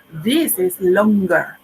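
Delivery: slow, clear "this is longer"; slow teacher demo. Shown as a demonstration. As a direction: stretch "longer" for learners. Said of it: "Like, for example".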